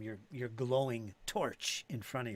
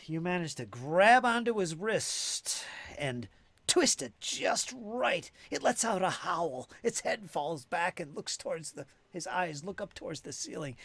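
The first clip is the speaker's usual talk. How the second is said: dramatic game master narration; 4 semitones higher, 7 dB louder than usual. Acted. Game master describing a successful disarm to player, dramatic narration. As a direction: narrate the struggle with louder, higher intensity.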